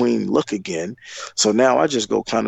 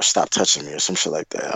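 lower, mock-cold girlfriend; girlfriend's curt order; 5 semitones lower than usual. Mimicking his girlfriend telling him to stop touching her. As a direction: drop the voice, clipped and annoyed. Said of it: "she looked back at me like".

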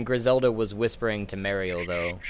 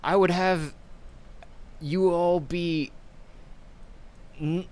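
slow, loud, higher scheming villain; 7 semitones higher, 4 dB louder than usual. Acted. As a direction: tempt them like a crime lord. DM voices Ferris.

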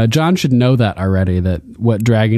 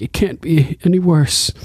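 mimicking Sansa; 6 semitones higher than usual. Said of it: "she's like".

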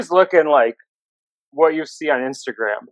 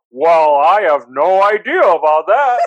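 announcer voice; 3 dB louder, slower than usual. Retold or imitated. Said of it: "he did it in his announcer voice".

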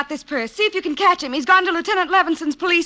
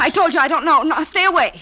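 frightened; 4 dB louder, faster than usual. Acted. Girlfriend backing away from thug.

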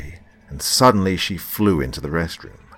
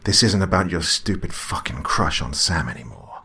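yelling; 3 semitones higher, 4 dB louder than usual. Acted. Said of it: "And then he was yelling".

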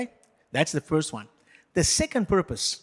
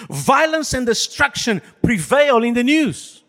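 dramatic reading; 5 semitones higher, 4 dB louder than usual. Shown as a demonstration. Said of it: "I'm gonna read some statements".

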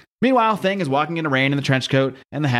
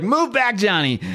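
Thing voice; 7 semitones higher, slower than usual. Retold or imitated. Thing yelling.

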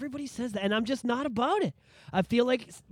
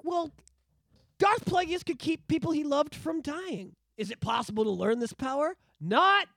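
Palpatine impression; 5 semitones higher than usual. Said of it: "that's what it sounds like to me".

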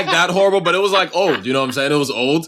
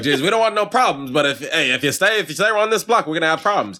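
higher, mock-threatening vintage voice; hammed-up old-movie warning, half laughing; old-time bigot neighbor; 5 semitones higher than usual. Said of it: "People used to talk like that".

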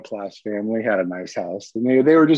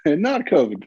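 repeated with a laugh; 4 semitones higher than usual. Real, not acted.

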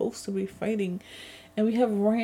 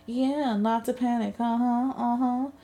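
sarcastic; 4 semitones higher than usual. Retold or imitated. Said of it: "and I'm just like".

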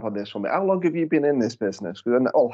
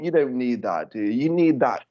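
ordinary delivery

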